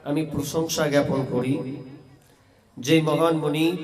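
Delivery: measured ceremonial address with long pauses; formal sermon opening. Real, not acted. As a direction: salute the assembly phrase by phrase. Formal opening salutation and praise.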